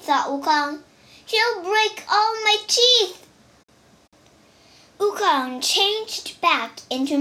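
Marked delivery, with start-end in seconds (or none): 1.3-3.3 alarmed. Acted. Wukong fears for his teeth.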